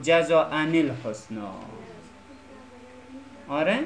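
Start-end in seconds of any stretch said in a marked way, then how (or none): 0.0-1.5 "جزاء الحسنا" linked as jaza'ani-l-husna; slow corrective model of "جزاء الحسنا"; inserted nun. Shown as a demonstration. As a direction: slowly add "ni" after "جزاء" into "الحسنا".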